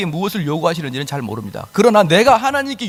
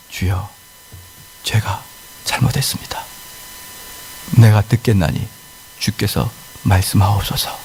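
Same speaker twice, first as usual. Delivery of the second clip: humble prayer; 8 semitones lower than usual. Acted.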